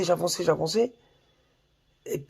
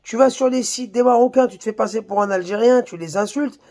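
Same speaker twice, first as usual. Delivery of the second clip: higher, insistent quoted speech; pitched-up retelling of someone's spiel; quoting a man in a video; 5 semitones higher than usual. Retold or imitated. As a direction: relay his spiel in a raised, listing tune. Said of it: "qui disait".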